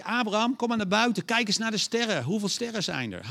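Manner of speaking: high, loud call of God to Abraham; God summoning Abraham outdoors to see the stars, loud and high. Acted. God calls Abraham outside.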